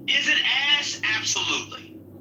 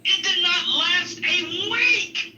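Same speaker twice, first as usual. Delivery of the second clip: slow, laughing repeat; 7 semitones higher, slower than usual. Real, not acted. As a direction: drag it out through a laugh.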